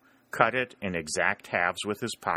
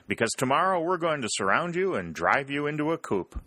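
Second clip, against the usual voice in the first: higher, lightly voiced young Yankee bragging; cheeky boast; 7 semitones higher than usual. Dick boasting to the Rebels, lightly voiced. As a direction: brag it with a wink.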